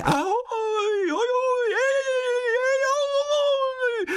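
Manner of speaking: very high, far-off whooping call; hooting forest spirit. Acted. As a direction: hoot back like a merry woodland sprite. Hejkal answers calling.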